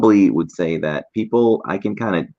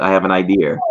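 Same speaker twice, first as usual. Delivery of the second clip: Boston accent; 2 semitones higher, 4 dB louder, faster than usual. Shown as a demonstration.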